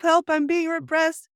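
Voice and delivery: high-pitched, slow mock cry for help; hammed-up protest, half yelled. Repeating the filth-roller's line for fun, mock yell. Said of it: "he was yelling".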